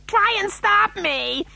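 high, slow wailing voice; queasy retort. A narrator's reading. Mother about to be sick, wailing defiantly. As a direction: wail the retort, drawn out and high.

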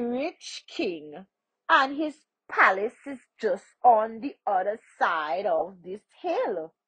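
lightly voiced stranger, measured and emphatic; informative stranger. Stranger telling the poor man of the princess, lightly voiced and emphatic. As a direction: explain it with a slightly lifted voice.

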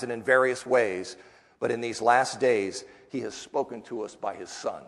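measured storytelling read to a class; story narration. A narrator's reading. Teacher reads a story of early believers aloud, in an even narrating voice. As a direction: paint the early church scene for listeners.

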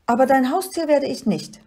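high, loud little creature protest; trotziges kleines Monster. A narrator's reading. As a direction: refuse firmly in a high voice. Little monster refuses to be pet. (hohe, trotzige Monsterstimme)

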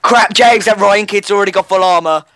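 loud, high-pitched panic; real panicked outburst; alarmed. Real, not acted. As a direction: cry out a warning in alarm. Alarmed at armoured enemy player.

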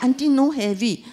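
own protest. Retold or imitated. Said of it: "So I said".

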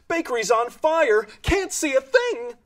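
high, alarmed caller; urgent emergency call. Acted. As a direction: report the fire in alarm. Emergency phone call in the story.

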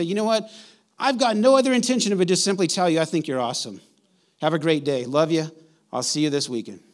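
cheerful phone call. Pretend. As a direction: gush a little as you praise them. Voicing a phone call to a friend.

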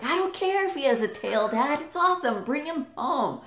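lightly voiced pleading kid; eager kid. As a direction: beg dad lightly like a child.

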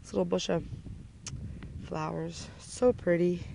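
talking with a mouth full of pistachios. Real, not acted. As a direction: speak around a mouthful of nuts. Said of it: "It sounds like my mouth is full".

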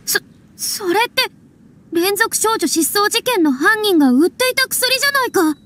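stammer, then burst out in alarm; horrified recognition of the drug; shocked realisation. Acted. (言葉に詰まり、驚いて叫ぶ)

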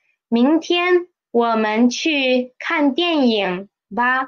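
light suggesting 吧 at the end; suggestion. Shown as a demonstration. Teacher shows 吧 turning a command into a suggestion. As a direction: offer it as a suggestion, not a command. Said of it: "sounds more like a suggestion".

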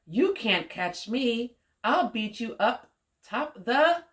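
put-on lilting, measured story reading for a child; picture-book read-aloud. A narrator's reading. Woman reading an alphabet story to young Omari, lilting read-aloud. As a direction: read it out rhythmically with playful swoops.

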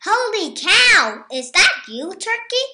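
startled pig shouting at his friend; surprised pig. A narrator's reading. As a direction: gasp it out in disbelief.

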